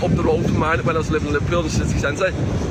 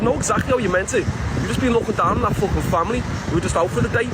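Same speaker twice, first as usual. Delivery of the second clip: mildly heated, raised pitch; retold fuming; 4 semitones higher than usual. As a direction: act out telling her off for snobbery. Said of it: "I was fuming".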